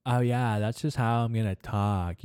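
put-on stereotyped gay man's voice; mocking stereotyped gay-voice imitation. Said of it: "gay dudes listen to that and they're like".

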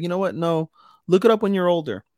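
playful parental brush-off. Retold or imitated. Mother dodging her child's question about flowers, high playful brush-off. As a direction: put the child off, pitched well up.

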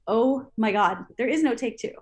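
half-joking rising panic; retold nervous dread. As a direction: stress the stakes of a one-take stunt. Retold nerves before one-take explosion.

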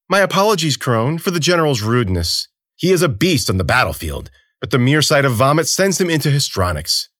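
mock-polite ruler talking down; haughty emperor voice. Sikakeu voiced mockingly polite.

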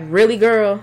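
a mock-sassy, dismissive "Really, girl?"; sassy attitude. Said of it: "you have an attitude".

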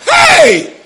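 high, loud laughing cry; excited shout. Real, not acted. Preacher exclaiming to the congregation, laughing loud. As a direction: burst out with a laugh.

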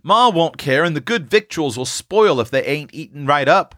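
put-on high, keen boyish voices urging it on; eager boys' clamour. A narrator's reading. Boys pressing for a dinner anyway, excited. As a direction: pipe up excitedly like hungry children. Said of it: "cried all the boys".

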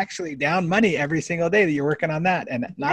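lively imitated scolding; exasperated challenge. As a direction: press the point in mock exasperation. Retold challenge to the doctor.

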